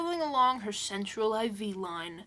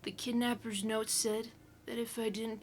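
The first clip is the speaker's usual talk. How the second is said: spooky hushed whisper; 5 dB quieter than usual. Acted. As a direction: whisper the story to scare them. Reading horror story in whisper.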